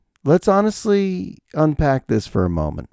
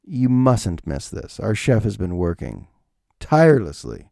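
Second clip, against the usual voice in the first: a hushed, refined waiter; 3 semitones lower than usual. Retold or imitated. Waiter recommending the beagle to him, lightly voiced refined waiter. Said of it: "And he goes".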